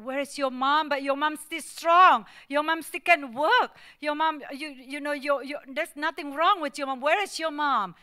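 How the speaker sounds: a father demanding answers from his son; anxious demanding shout. Retold or imitated. Dad demanding where mother is.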